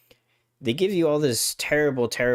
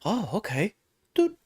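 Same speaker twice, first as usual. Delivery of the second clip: put-on casual girl voice; 7 semitones higher than usual. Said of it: "she's like".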